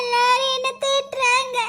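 slow, tearful complaint; wife sobbing that everyone scolds her; crying. Acted. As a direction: drag the words out through tears. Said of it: "எதுக்கு அழுதுகிட்டே போற?".

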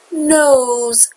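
Nose, ending in a clear buzzing z; teacher stresses the z at the end of Nose; Nose with a z sound. Shown as a demonstration. Teacher showing students the z in Nose.

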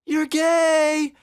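high, loud goofy falsetto; cartoonish shrieky goof. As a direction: call it out in a silly high-pitched voice. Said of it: "I thought it was doing a goofy voice".

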